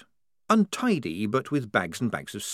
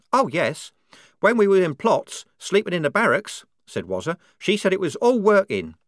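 put-on higher, louder voice for a devout girl soldier; a zealous young recruit, fervent and sure; higher fervent believer voice; 9 semitones higher, 6 dB louder than usual. A narrator's reading. Wazza voiced, devout conviction.

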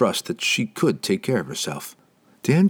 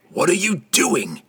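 much higher, insistent demand; more emphatic demand; 9 semitones higher than usual. A narrator's reading. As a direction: push harder, stress on you. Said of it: "Entreri demanded more emphatically".

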